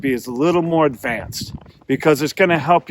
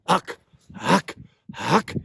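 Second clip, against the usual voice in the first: goose call uck; 2 semitones higher, slower than usual. Shown as a demonstration. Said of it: "my lips aren't saying it".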